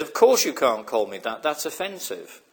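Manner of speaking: a mildly upset, indignant retort. Retold or imitated. Man objecting after the woman insults him, mildly upset. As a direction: bristle a little, offended at being insulted. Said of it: "He got a little bit upset".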